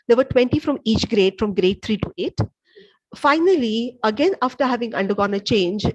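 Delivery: projecting so the class hears. Real, not acted. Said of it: "Please raise your voice".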